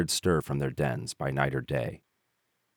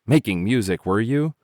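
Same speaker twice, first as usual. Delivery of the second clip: louder, mocking question; scornful ants; 7 semitones higher, 6 dB louder than usual. A narrator's reading. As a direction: sneer back at the grasshopper. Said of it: "they cried".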